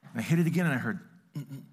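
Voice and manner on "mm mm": soft beep. Retold or imitated. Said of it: "real soft".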